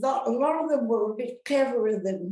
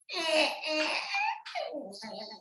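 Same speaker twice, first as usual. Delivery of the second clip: asthma noise imitation; 6 semitones higher, 5 dB quieter than usual. Shown as a demonstration. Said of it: "sounds a bit like a baby cry".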